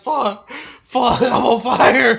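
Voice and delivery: high, loud yell through laughter; mock panicked shout. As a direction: imitate a kid screaming, cracking up. Acts burning boy's panicked yells.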